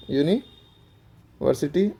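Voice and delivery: यूनिवर्सिटी drawn out very slowly, yoo start; slow careful university. Shown as a demonstration. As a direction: spell out यूनिवर्सिटी syllable by syllable. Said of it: "यू को क्या पढ़ना है".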